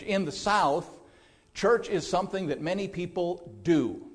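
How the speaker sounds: "do" leaned on at the end of the line; quoting a pastor, putting the weight on "do"; stress on do. Retold or imitated. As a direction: hit the word "do" as the pastor did. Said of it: "with the emphasis on the word do".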